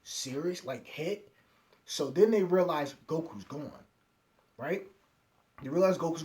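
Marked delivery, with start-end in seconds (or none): 0.0-1.3 mildly acted shock, questioning; retold disbelief, a touch stunned. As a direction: imitate a taken-aback reaction.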